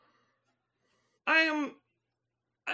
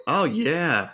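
much lower dude voice; alien-changed guy; 10 semitones lower than usual. Acted. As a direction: drop way down into a laid-back bro. Same low character.

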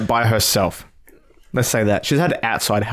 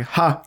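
laugh demo; 5 semitones higher than usual. Shown as a demonstration. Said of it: "instead of going".

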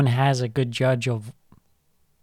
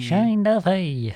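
mock Australian accent; 6 semitones higher, much slower than usual. Shown as a demonstration. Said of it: "I don't know why I'm Australian".

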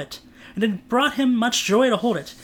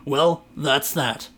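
resigned; 4 semitones lower, much slower than usual. Acted. Trent resigned after throwing ring.

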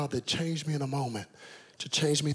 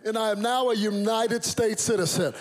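put-on raised, proud American-accented announcement; 5 semitones higher, 3 dB louder than usual. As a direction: declare it in crisp General American. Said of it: "No citizenship was changing that accent".

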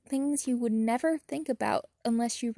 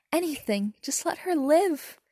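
frantic plea; 3 semitones higher than usual. Acted. Harry begging Tom to save Ginny, frantic. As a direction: beg desperately for her life. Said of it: "he said frantically".

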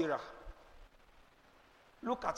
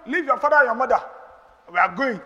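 loud preaching; 4 semitones higher, 11 dB louder than usual. Retold or imitated. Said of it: "Abraham cannot tell you".

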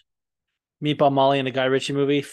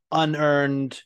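unearned set apart, leaned on; stress on unearned. Shown as a demonstration. Podcaster stressing his key word to the listeners, unearned leaned on. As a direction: lean on the word unearned alone. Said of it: "unearned being the key word here".

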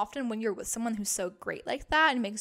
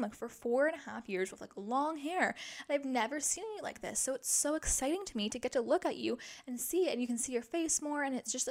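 put-on reassuring boyfriend; 4 semitones higher than usual. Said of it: "And he was like".

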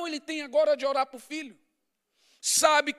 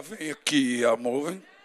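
tender coaxing; 11 semitones lower, slower than usual. Retold or imitated. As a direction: coax her in gently with a laugh. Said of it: "eu falo".

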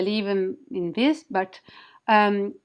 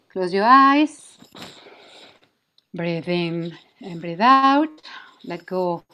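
sultry narrator. Acted. Leads a guided wing activation.

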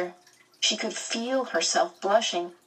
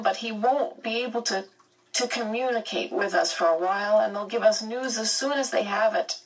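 higher, holding back tears; speaking over a sob; 6 semitones higher than usual. Acted. Meg telling Calvin about her missing father, fighting tears. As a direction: push the words out past a choked sob. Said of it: "choked down a sob and managed to speak over it".

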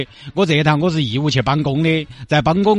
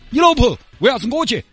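sichuan dialect; 9 semitones higher than usual. Retold or imitated. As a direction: react startled in Sichuan dialect. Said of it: "我给你表演一段，还原一下当时的情景". (四川话，吃惊)

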